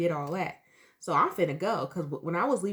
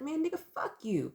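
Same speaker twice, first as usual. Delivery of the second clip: raised, defiant curse-out; telling him off; 7 semitones higher than usual. Retold or imitated. Cursing out her high boyfriend, defiant. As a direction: let it burst out of you.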